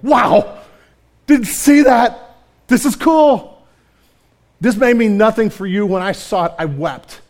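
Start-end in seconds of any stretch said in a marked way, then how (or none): 0.1-3.7 slow, higher, louder amazed wonder; amazed wow. Retold or imitated. Pastor reenacting his study discovery, amazed and slow. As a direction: let the discovery hit you, slow and bright. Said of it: "throw my book down and go".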